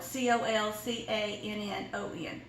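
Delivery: C O L C A N N O N spelled letter by letter; spelling it out. Shown as a demonstration. Host to viewers, spelling the dish name letter by letter. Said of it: "'cause that's how it's spelled".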